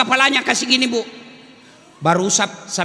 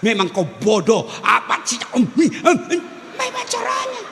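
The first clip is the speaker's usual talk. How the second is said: harsh scolding; slower than usual. Retold or imitated. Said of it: "keluar semua kata-kata kasar".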